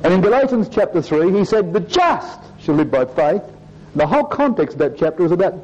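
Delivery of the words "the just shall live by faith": JUST drawn out with a rise, the rest slow; stress on JUST. Shown as a demonstration. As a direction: lean on JUST and let it lift. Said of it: "he emphasised one or other of those words".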